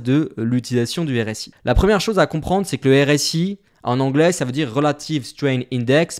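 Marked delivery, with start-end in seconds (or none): 4.7-6.2 English term in a French accent; unpolished French accent on the English. Real, not acted. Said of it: "Pardonnez-moi pour mon accent qui est pas forcément le plus classe".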